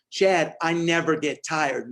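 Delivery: slow and firm, with conviction; mean every word of it, slowly; said like you mean it. Retold or imitated. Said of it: "say it like you mean it".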